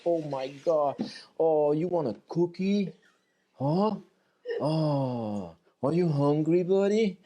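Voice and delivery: put-on high-pitched gushing dog-owner baby talk; squeaky baby talk. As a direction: coo at the dog in a squeaky, rising voice. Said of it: "squeak like a little puppy".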